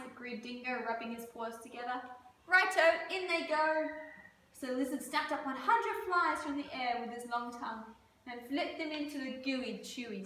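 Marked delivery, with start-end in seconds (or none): 2.5-3.9 cheerful call. Acted. Dingo agrees.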